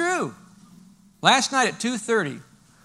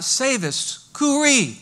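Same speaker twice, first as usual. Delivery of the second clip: mock yell; 6 semitones higher, 4 dB louder, much slower than usual. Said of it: "somebody that's yelling out".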